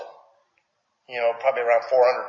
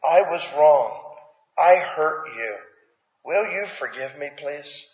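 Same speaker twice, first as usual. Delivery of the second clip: sincere apology; slower than usual. Shown as a demonstration. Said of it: "What are you teaching them".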